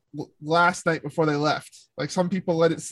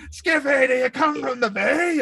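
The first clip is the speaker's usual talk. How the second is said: mock Newfie accent, pitched up; imitated Newfie kid; 8 semitones higher than usual. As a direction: call it out mimicking a Newfie kid. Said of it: "he sounds like he's, like, a newfie".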